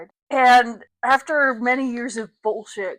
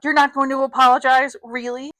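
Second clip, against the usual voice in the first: raised, higher, louder challenge; 4 semitones higher, 6 dB louder than usual. Acted. Father stands and demands an apology, raising his voice. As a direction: confront her with a raised voice. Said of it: "His voice was loud".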